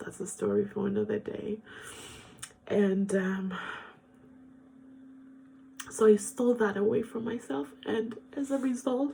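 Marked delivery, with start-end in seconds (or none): 2.7-9.1 tearful, crying speech. Speaker tells their own story to an audience, crying while talking. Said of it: "I did not think I was going to cry this much".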